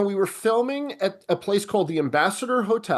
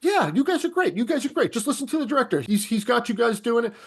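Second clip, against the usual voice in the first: breezy deflection; 6 semitones higher than usual. Retold or imitated. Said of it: "And I would just deflect".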